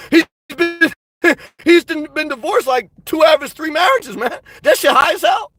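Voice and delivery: breaking into laughter mid-rant; laughing. Real, not acted. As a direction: crack up while ranting. Laughing while mocking Trump's divorces.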